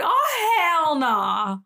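loud, high laughing shout of disbelief; shocked yell. Retold or imitated. Shocked reaction in retold scene.

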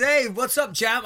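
casual cool star greeting; Samuel L Jackson. Retold or imitated. Film star greeting a fighter, lightly voiced cool greeting. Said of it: "And he's".

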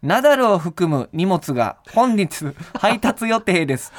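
flat machine assistant voice; robot voice. Retold or imitated. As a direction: read it like a monotone smart speaker. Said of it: "淡々とした機械音声で". (淡々とした機械音声)

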